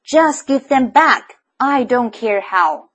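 loud, slow shout out the window. A narrator's reading. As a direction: bellow it out, high and slow, every word hit. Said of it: "shouted to the thing outside".

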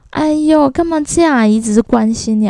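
a hint of a fussy aunt; imitating nosy aunt. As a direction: play the prying aunt, sing-song. Aunt's voice in retold exchange.

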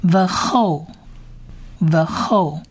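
"the whole" said as Hebrew ve-KHOL, slowly; Hebrew pronunciation model. Shown as a demonstration. Teacher sounds out a Hebrew word for learners, slow pronunciation model. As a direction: say "the whole" as ve-khol, throaty kh, drawn out. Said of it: "所以是后".

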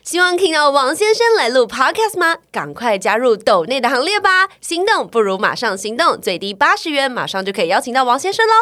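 loud, high, upbeat commercial announcer. Shown as a demonstration. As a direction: sell it like a TV ad pitch. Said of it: "我可以用广告的声音再讲一次".

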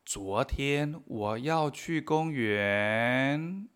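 very slow careful Chinese; slow model sentence. Shown as a demonstration. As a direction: read it word by word. Model sentence read slowly. (frase modelo muy lenta)

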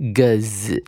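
个字 as separate g and z sounds; split X sound. Shown as a demonstration. Teacher splits the X sound for students, sounded-out phonics. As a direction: sound out 个字 as voiced g plus z. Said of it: "把那个X的音呢拆解成为".

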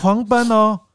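high and loud exclaim; incredulous outburst; excited emphasis. Real, not acted. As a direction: stress how they bolted. Kids fleeing, emphatic retelling.

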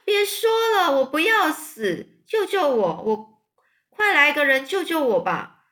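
high, loud pleading shrieks; panicked scream. A narrator's reading. Wilbur screams at the sheep to stop, panicked. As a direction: beg for rescue in terror. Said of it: "韦伯就尖叫说".

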